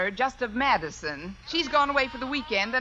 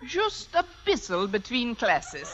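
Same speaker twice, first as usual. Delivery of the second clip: put-on German accent. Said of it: "If I can do a decent German accent".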